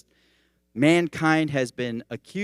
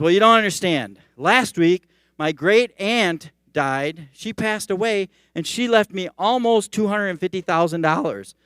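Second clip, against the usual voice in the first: high, loud aggrieved storyteller; worked-up, raised-voice lament; exasperated complaint; 6 semitones higher, 7 dB louder than usual. Acted. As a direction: build the upset as you explain. Acting the upset man's escalating complaint.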